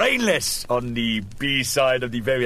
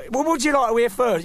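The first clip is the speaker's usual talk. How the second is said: nurse voice; 9 semitones higher, 3 dB louder, faster than usual. Retold or imitated. Nurse voiced in retold joke.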